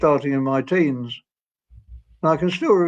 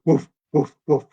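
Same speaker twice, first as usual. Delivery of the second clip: a far-off dog answering, barks at usual pitch; distant dog barking. Retold or imitated. Another dog answering from the distance, lightly imitated barks. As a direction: bark back like a dog down the street. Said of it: "in the distance another dog go".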